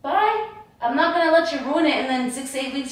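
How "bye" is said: high sharp bye, louder; angry dismissal. Real, not acted. Girlfriend furiously sending boyfriend to the strip club, shrill. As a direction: send him off with scorn.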